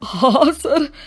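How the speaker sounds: be overcome at seeing him; tearful astonishment. Acted. Father identifying his son's missing friend, tearfully amazed. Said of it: "आंखों में हैरानी से आंसू आ जाते हैं".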